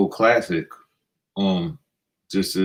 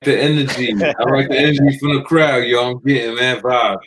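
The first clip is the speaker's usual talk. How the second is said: hyped up; 4 semitones higher, 4 dB louder than usual. Real, not acted. Hyping up the crowd.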